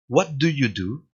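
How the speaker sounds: What do you do? said slowly with the pitch rising on the final do; slow question lifting at the end; rise at the end. Shown as a demonstration. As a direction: rise only on the last "do". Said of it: "recién al final".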